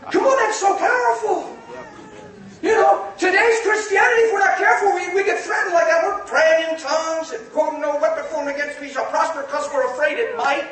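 high-pitched fired-up sermon, easing down at the end; impassioned preaching. Real, not acted. Preacher confronting the church about fear, impassioned. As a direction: preach it with excited urgency.

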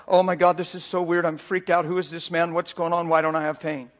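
low, hushed run of stunned questions; retold freaked-out bewilderment. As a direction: imitate her dazed inner panic, understated. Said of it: "She's got all these emotions".

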